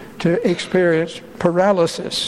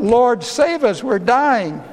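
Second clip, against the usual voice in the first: raised, pleading cry for rescue; crying out in fear; 6 semitones higher than usual. Retold or imitated. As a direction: call out as if the boat is sinking. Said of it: "they cried out".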